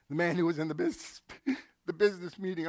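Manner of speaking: laughing through the words; breaking up mid-sentence; overwhelmed laughter. Real, not acted. Pastor to congregation, laughing. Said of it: "I'm getting overwhelmed now, folks".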